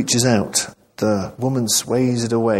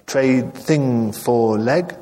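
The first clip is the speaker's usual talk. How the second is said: slow, halting broken English; lightly voiced foreign woman; much slower than usual.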